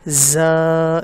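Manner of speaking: زا said hard and heavy, loud; said forcefully. Shown as a demonstration. Teacher showing students how to say زا forcefully. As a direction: press زا out with force. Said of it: "جتنی آپ سختی سے اس کو پڑھ سکتے ہیں".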